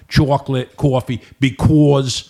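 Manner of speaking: "Chocolate", "coffee", "because" with a rounded "aw"; Jersey long O. Shown as a demonstration. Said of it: "In Jersey, it's the long O".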